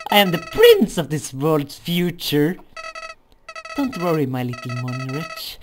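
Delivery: high, loud menacing flower; Flowey voice. Acted. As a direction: scheme aloud, high and loud. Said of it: "my flowery voice".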